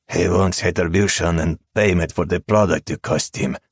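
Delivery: words forced through gritted teeth; through clenched teeth. Acted. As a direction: speak with your teeth clenched. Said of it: "Raul said behind clenched teeth".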